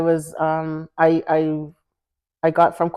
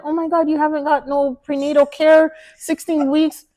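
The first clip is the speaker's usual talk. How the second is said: freaking out doctor; 9 semitones higher than usual. Retold or imitated. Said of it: "she was freaking out".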